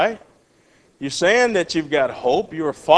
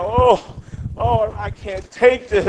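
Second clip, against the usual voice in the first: mock whining; 5 semitones higher, slower than usual. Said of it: "whining and crying".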